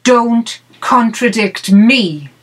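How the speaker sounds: slow, emphatic retold scolding; mild mock yell. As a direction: lightly act out an angry child's order, word by word. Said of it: "and yelled at me".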